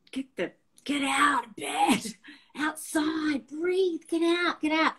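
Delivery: put-on high-pitched parent rousing a teenager; imitating a nagging, insistent mum; bossy mock ordering. Mum rousting teenage daughter out of bed, high-pitched mock ordering.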